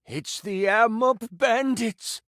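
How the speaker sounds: slow, grave reveal of the bandits; name the enemy with slow weight; ominous priest. Acted. Priest warning the hero, slow and grave. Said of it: "Stop. I'm trying to focus".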